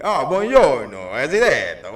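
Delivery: drawn-out imitation of an Italian lesson; lightly mock an Italian instructor; slow Italian lilt; Italian teacher voice. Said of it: "the lady's talking and she's like".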